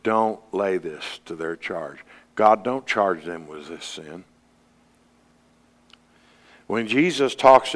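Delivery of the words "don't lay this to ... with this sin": dying prayer. Retold or imitated. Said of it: "before he died, he said".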